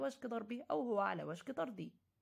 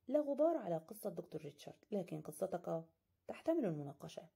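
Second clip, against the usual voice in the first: confident. Acted. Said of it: "قال في ثقة".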